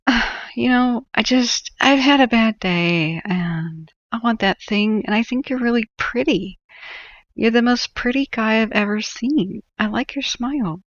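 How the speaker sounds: high, slow, sugary flattery; imitating a Karen flattering the clerk, high and slow; flirty wheedling. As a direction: sweet-talk him to get the thing. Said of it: "switch to a different tactic and be like".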